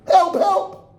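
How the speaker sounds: scream for help. Acted. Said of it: "and I scream".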